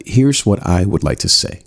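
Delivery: steady, grounded delivery from the stomach; calm and confident. Shown as a demonstration. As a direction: say it from your base, unhurried. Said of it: "And I said it calmly".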